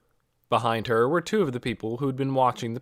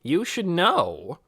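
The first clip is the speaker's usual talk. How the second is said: stern glare; 6 semitones higher, 3 dB louder, slower than usual. A narrator's reading. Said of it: "glared at her".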